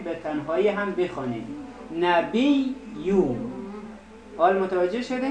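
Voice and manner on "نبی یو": نبی یو split apart and slow; slow demonstration. Shown as a demonstration. Teacher showing students the doubled ya in نبی یو, slowly. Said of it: "یا را با ب هم بخونین".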